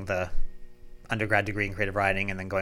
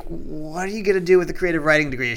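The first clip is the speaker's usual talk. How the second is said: high, loud retold quote; mimicking a worried mother's question; mentor quoting mom; 7 semitones higher, 8 dB louder than usual. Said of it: "He's like".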